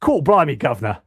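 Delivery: hammed-up Cockney exclamation, starting high and falling; bad Cockney accent. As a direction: do a mock Cockney cry. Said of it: "doing a bad, bad Cockney accent".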